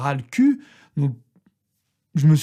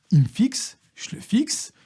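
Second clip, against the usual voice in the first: ordinary talk, nothing marked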